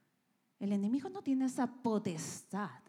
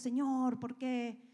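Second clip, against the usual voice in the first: complaining prayer; 2 semitones higher, slower than usual. Retold or imitated. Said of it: "nos estamos quejando y decimos".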